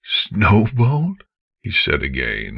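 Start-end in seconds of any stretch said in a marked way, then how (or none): 0.0-1.2 name spoken aloud in a ragged, broken voice; voiced now, rough with disbelief. Father saying his daughter's name aloud, ragged. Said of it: "his voice ragged".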